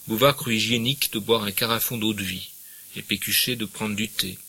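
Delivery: measured literary reading aloud; story narration. Acted. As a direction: read the novel to the class. Reads the novel aloud.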